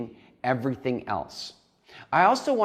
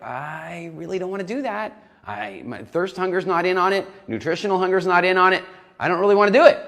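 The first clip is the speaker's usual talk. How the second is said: the good angel digging in her heels; food angel refusing; 6 semitones higher, 6 dB louder than usual. Acted. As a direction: food angel protesting, rising to a loud refusal. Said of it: "the food angel's gonna be like".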